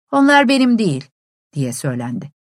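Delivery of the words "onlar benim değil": surly. A narrator's reading. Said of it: "daha aksi bir tavırla".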